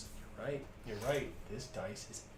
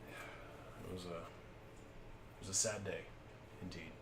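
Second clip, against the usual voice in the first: mock sad; 4 semitones lower, 8 dB quieter, much slower than usual. Mourning a dead companion.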